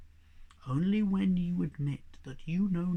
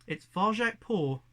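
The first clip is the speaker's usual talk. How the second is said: put-on proud young cat; 5 semitones higher, 6 dB louder than usual. Cat proudly gives his name.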